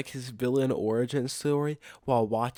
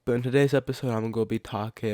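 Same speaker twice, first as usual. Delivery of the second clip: wearing a retainer. Real, not acted. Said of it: "sorry if I sound kinda weird, but I got my retainer in".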